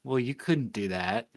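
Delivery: softly imitating a shaky-voiced man; quiet, subdued retold reply, a touch shaky. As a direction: say it softly, as if choked up. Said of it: "with a shaky voice".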